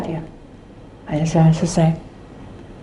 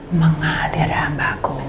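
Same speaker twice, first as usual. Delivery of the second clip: slow, voiceless and soft; slow whisper; 4 semitones lower, 5 dB quieter, slower than usual. Retold or imitated. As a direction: breathe it out gently. God's reply voiced.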